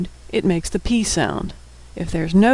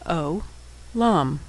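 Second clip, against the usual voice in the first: syllable by syllable; 6 dB quieter than usual. Shown as a demonstration. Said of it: "and final mem".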